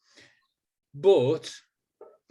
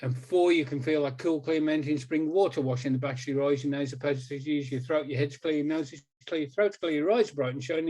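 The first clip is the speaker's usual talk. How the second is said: hypnotic suggestion. Acted. Hypnotist counting a subject back up, soothing. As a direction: guide the listener gently back to waking.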